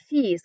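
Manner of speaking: "fees" said like the English word; shown pronunciation. Shown as a demonstration. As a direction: say "fees" to rhyme with "bees". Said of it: "but we pronounce it".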